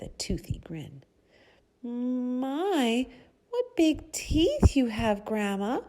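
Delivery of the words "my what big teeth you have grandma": high, louder and slow, a touch of fright; little girl mildly frightened, higher pitched; shuddering. Acted. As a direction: gasp it out, lightly scared of the teeth. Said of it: "shuddered Little Red Riding Hood".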